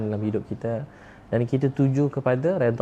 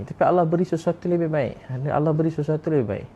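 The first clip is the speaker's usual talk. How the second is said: raised, ringing declaration that Allah gives better; emphatic preaching; 5 semitones higher than usual. Real, not acted. Preacher to the congregation, a raised emphatic declaration. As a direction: preach it out high and strong.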